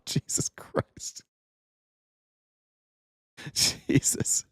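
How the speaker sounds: voiceless, wheezy laughing exclamation; laughing disbelief. Real, not acted. Host reacts to a crude joke, laughing. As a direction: groan it out through helpless laughter.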